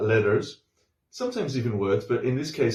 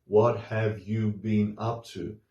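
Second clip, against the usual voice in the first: "What have you been up to?" said slowly, every syllable clear; careful textbook reading; full form; slower than usual. Shown as a demonstration. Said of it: "It's more like".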